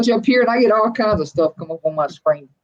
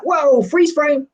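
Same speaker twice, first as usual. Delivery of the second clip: high, slow, startled freeze; startled whoa; 7 semitones higher, much slower than usual. Retold or imitated. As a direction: stop dead in alarm. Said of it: "I'm like".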